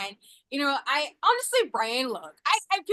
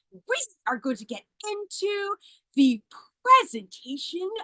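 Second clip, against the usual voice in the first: boxing announcer voice. Pretend. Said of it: "I had to put on my announcer voice, like when you're boxing in the ring".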